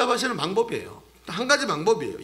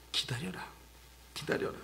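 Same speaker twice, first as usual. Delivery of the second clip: quiet divine command; 2 semitones lower, 14 dB quieter than usual. Acted. God's answer of wait, acted.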